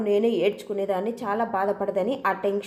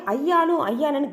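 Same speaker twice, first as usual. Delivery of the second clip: shouting back; 4 semitones higher than usual. Acted. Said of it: "గట్టిగా అరిచి చెప్తుంది రోహిణి".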